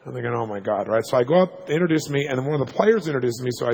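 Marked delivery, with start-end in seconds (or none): none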